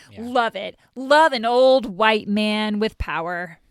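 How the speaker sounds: facetious, tongue-in-cheek, loud, drawn-out sarcasm. Reacting sarcastically to news about an accused director: facetious. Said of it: "I'm being facetious".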